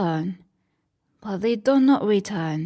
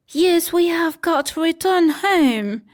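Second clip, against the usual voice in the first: put-on higher, decided older sister; firm Wendy; 8 semitones higher, 4 dB louder than usual. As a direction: settle it firmly. Narrator voices Wendy.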